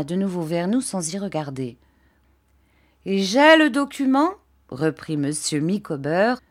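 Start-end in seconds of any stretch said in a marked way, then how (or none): 3.0-4.3 higher, louder, declaiming like a preacher; sermon-like reading. A narrator's reading. Micawber declaiming his accusation like a sermon. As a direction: read it out like a sermon. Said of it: "comme s'il relisait le texte d'un sermon".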